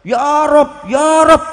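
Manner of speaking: loud, high panicked calling to God; retold desperate crying out. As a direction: cry out to the Lord in terror of the storm. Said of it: "Teriak-teriak".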